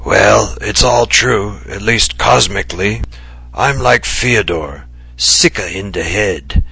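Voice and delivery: playful old trickster, lightly put on; a hint of an impish character voice; confiding with a touch of mischief; lightly voiced eccentric writer.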